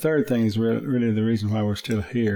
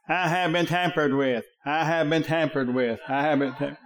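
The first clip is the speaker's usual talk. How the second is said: tinny car alarm voice; 3 semitones higher than usual. Retold or imitated. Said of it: "real loud, real tinny voice sounding".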